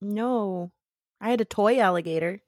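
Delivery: usual speaking voice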